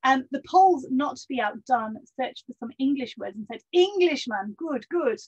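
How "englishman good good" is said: lightly put-on Polish accent, higher and louder; a Polish soldier returning the compliment in a Polish accent. Polish soldier answers British sailor, light Polish accent. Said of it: "I am doing the accent".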